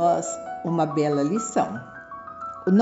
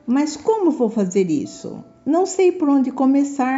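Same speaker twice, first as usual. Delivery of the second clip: put-on boy retorting; 5 semitones higher than usual. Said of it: "retrucou o garoto".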